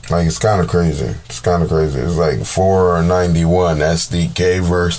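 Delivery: speaking through a yawn; low, drowsy yawn while talking. Real, not acted. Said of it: "My bad, I'm yawning".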